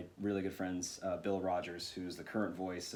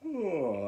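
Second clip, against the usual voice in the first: higher-pitched "oh" held in place; demonstrated held sound; 8 semitones higher, 4 dB louder than usual. Shown as a demonstration. Voice actor showing hosts where the voice sits, demonstrated held sound. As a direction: hold the "oh" right there. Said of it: "you would hold the sound right there".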